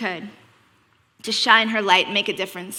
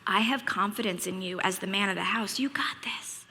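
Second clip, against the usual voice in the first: soft, barely awake mock reassurance; imitating a drowsy parent, very quiet; sleepy murmur; 3 semitones lower, 11 dB quieter than usual. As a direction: murmur it as if half asleep. Mom feigning sleep answers son.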